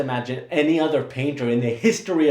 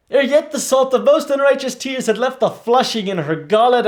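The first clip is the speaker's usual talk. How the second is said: furious; 9 semitones higher, 4 dB louder than usual. Acted. Hamlet's continuing outburst.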